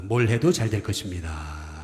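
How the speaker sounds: warm, sincere well-wishing to the neighbour; sincere blessing. Shown as a demonstration. Pastor blessing the person beside, sincerely. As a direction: bless them kindly. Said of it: "이게 아니고요".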